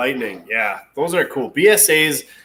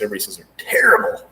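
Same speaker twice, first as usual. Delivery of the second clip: whispering; 5 semitones lower, much faster than usual. Real, not acted. Aside about Lucas electronics.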